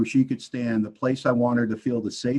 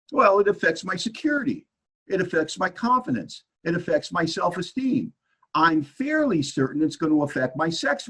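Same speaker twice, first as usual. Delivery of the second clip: higher, mock-wounded listing; aggrieved self-pity; 4 semitones higher than usual. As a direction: list each hurt like a wronged husband. Acts out self-pitying inventory answers.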